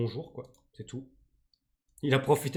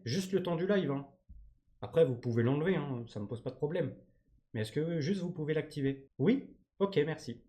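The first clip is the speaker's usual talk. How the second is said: jouer poliment un client au téléphone; faux appel téléphonique; 4 dB quieter than usual. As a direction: demande polie, légèrement jouée, un peu plus posée. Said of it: "vous avez kiffé mon jeu d'acteur". (faux coup de fil courtois)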